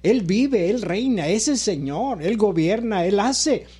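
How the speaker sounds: rhythmic declarations, each phrase lifted in pitch; emphatic preaching. Real, not acted. Pastor testifying to the congregation that God still works, emphatic preaching.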